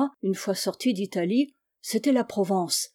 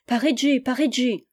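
higher, bright calls of the city's name; joyful; 4 semitones higher than usual. Acted. Old master dreaming of Paris, joyful. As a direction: call out the city name with delight. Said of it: "tout joyeux".

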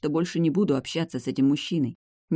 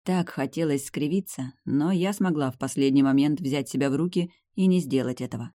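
usual speaking voice

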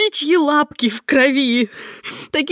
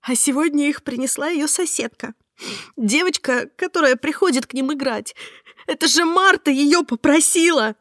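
higher, tearful telling; sobbing; 6 semitones higher than usual. Acted. Heroine tells Mark about the flowers, sobbing. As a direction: speak through sobs. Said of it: "всхлипывала я".

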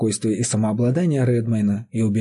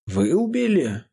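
shocked, higher gasped question; stunned exclamation; 7 semitones higher than usual. A narrator's reading. Steward hearing the farmer's confession, stunned and higher. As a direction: recoil in disbelief at the news. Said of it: "воскликнул поражённый Ворд".

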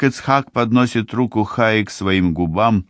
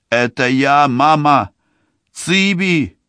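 calling out; 8 semitones higher than usual. A narrator's reading. Daughter calling mother through fence.

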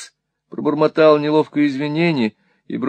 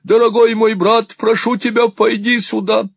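high, loud, urgent summons; urgent exclamation; 9 semitones higher, 5 dB louder than usual. A narrator's reading. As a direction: call your brother over, pleading. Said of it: "воскликнул брат Чарльз".

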